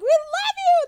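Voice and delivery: high, loud fangirl mock scream; retold screaming. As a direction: scream it adoringly in imitation. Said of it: "all screaming at each other".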